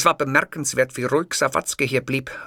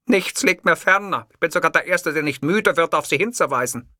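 a touch of orator's pathos; haughty Hitler; 6 semitones higher, 3 dB louder than usual. Acted. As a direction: proclaim it earnestly. Hitler answers.

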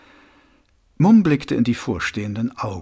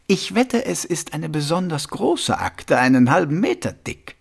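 lightly voiced zealot, higher; Reg Shu; 5 semitones higher than usual. Reg bets on a huge file about himself, smugly insistent. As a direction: insist with smug suspicion, pitched up.

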